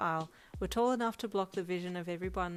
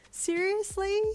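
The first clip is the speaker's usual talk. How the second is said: much higher, louder, slow stunned screech; awestruck screech; 14 semitones higher, 8 dB louder, slower than usual. Acted. Bride seeing her surprise transport, awestruck screech. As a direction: gasp it out in disbelief.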